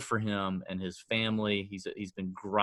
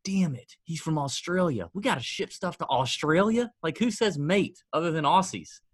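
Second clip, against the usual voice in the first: mock exasperation; 6 semitones higher than usual. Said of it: "And I was like".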